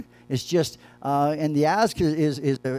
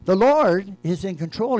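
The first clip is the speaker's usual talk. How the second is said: slow proclaiming; 2 semitones higher, 4 dB louder, slower than usual. Acted. Preacher proclaims God's sovereignty.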